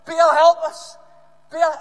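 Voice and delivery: full-force high shout, long drawn out; all-out acted bellow. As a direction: yell the plea at the top of your voice. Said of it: "they all shouted a bit louder".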